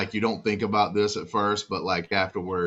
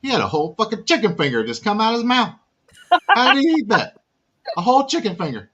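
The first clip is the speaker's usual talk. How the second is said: imitating sister's shock; 7 dB louder, faster than usual. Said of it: "I can't do it in the, uh, accent that she's got".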